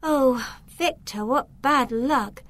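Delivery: slow, sympathetic; girl pitying the orphan boy, kind; kindly. Acted. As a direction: comfort the orphan. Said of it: "looked at him kindly".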